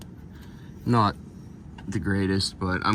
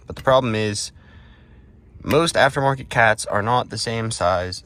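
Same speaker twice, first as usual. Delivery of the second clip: talking while lying on your back under a car; strained voice from lying under a car. Real, not acted. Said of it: "I'm under the car".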